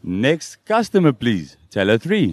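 slow till announcement; slow and flat, a store voiceover; bored mechanical politeness. Shown as a demonstration. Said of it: "Look into camera and say".

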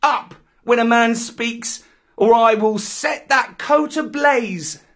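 put-on high, loud boy's threat; commanding cry. A narrator's reading. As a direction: threaten the tiger, loud and masterful. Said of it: "Mowgli cried".

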